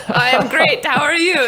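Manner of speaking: light imitation of a Swiss accent; a hint of Swiss accent, through a chuckle; Roger Federer. Host mimics tennis star's staged elevator small talk, light Swiss accent. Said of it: "in his little Swiss accent".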